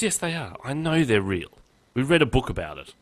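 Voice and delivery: lightly voiced insistent boy; insistent child. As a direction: insist like a child who is sure. Retelling son insisting dragons exist.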